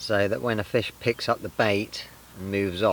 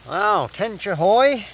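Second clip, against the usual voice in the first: high, loud, stretched-out cry of delight; excited call; 11 semitones higher, 7 dB louder, much slower than usual. Real, not acted. Angler spotting a tench, a slow, high, delighted call. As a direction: sing it out slowly as the fish shows.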